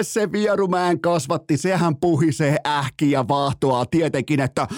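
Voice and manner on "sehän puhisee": ordinary delivery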